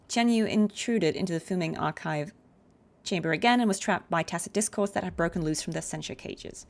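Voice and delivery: steady machine-like readout; robot voice. Shown as a demonstration. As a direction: read it like a robot log. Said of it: "Robot Cardi".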